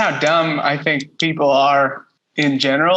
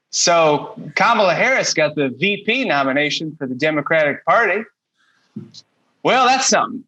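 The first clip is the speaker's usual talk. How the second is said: a hint of a bland monologue comic; understated mock talk-show joke; Jeff Sheen style. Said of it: "These are in the style of Jeff Sheen".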